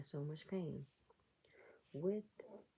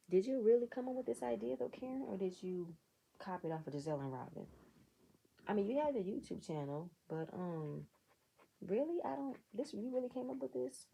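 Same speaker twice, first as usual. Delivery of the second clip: skeptical challenge; 5 semitones higher than usual. Real, not acted. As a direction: call her out in disbelief. Challenging Karen directly.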